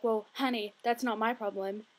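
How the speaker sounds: sassy retort. Retold or imitated. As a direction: put on a mild sassy brush-off. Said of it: "this sassy girl gets on".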